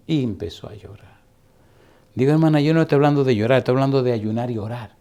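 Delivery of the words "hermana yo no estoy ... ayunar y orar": fast, louder firm rebuke; firm correction. Retold or imitated. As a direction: set her straight quickly. Pastor corrects weeping woman.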